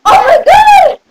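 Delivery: loud, high outburst; exasperated shout. Acted. Sister fed up with her annoying sibling, exasperated shout.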